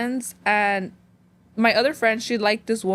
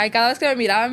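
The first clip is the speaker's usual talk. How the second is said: ordinary talk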